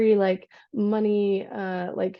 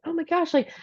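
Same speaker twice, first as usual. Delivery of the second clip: surprised; 3 semitones higher than usual. Retold or imitated. Realizing she forgot.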